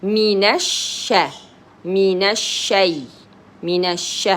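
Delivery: من الش with a long hushing sh, lam silent; doubled sheen. Shown as a demonstration. Teacher shows two sheens to a learner, lengthening sh in من الشي. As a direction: hold the sh in من الشي as two letters. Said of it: "two sheens".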